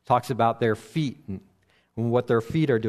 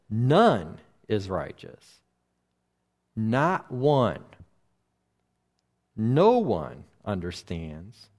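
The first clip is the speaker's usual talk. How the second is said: scripture reading. Acted. Preacher reads Paul's quote to the congregation, slow and solemn. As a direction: let each line land slowly, like holy writ.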